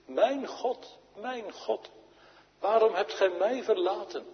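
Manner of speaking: high, pleading quotation of a forsaken cry. Acted. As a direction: cry out in anguish, pausing between phrases. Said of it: "Toen Christus Jezus in de Godverlatenheid riep".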